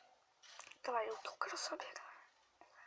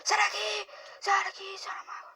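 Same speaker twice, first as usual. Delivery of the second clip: shouting; 8 semitones higher, 8 dB louder than usual. Real, not acted. Yelling at game enemy.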